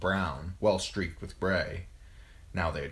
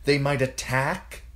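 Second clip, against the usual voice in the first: higher, louder, hard interruption; 8 semitones higher, 5 dB louder than usual. A narrator's reading. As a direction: finish his sentence with force. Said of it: "Catelyn finished, hard".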